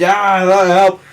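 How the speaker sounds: imitated screaming in pain; mock screaming. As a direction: act out a pained scream, held back. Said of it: "She's screaming".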